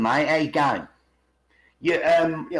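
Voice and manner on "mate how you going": lightly imitated London accent; casual London greeting, lightly put on; a hint of London dialect. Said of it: "you can go to London".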